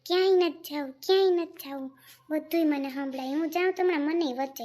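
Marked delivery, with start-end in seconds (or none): 0.0-1.9 mocking refusal. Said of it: "મોટી વહુને હું કે".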